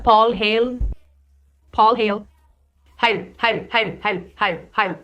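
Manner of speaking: "Hale" tried as hel, then heɪl, then haɪl; "Hale" repeated with rising and falling tune, vowel changing each try; unsure name attempts. Real, not acted. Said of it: "I don't know how to say his name".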